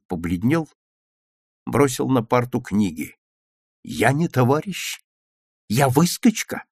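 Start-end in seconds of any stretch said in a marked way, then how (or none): 3.8-6.7 rising questions at ordinary volume; stung questioning. A narrator's reading. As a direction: echo the insult as disbelieving questions. Petya throws the insult back as questions. (обиженно переспрашивая)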